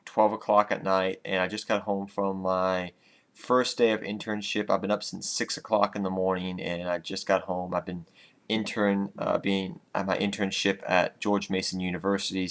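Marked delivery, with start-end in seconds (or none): 4.7-10.8 tired. Real, not acted. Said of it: "I'm very tired right now".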